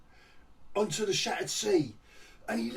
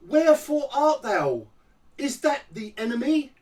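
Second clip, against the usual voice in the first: mock theatrical Kit; 6 semitones higher, 8 dB louder than usual. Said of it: "old Kit comes out and she goes".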